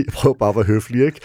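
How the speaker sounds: højere, kraftigere stemme med latter; grinende. Real, not acted. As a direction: forsvar dig selv med et grin. Griner af sin egen historie. (grinende selvforsvar)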